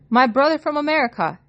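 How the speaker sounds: put-on light near-British accent on the taxi driver's question; a taxi driver asking with a hint of a British accent; almost British accent. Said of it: "he asks in an almost British accent".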